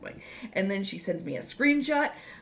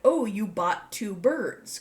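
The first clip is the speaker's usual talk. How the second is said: slow, drawn-out puzzled question; 3 semitones higher, 3 dB louder, slower than usual. Retold or imitated. Friend texting back about "two birds", slow questioning. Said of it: "question mark".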